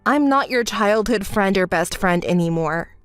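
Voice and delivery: low, controlled finality; cool dismissal. Acted. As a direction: end it calmly and firmly. Coldly ends the friendship.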